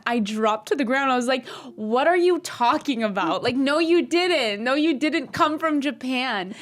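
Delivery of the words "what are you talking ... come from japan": higher, slow, stunned disbelief. Retold or imitated. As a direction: act out being floored she came from Japan. Stunned at girl from Japan.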